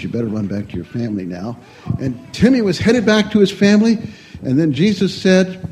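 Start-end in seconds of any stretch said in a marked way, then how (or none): 0.0-1.6 whispered. Acted. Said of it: "whispered to him".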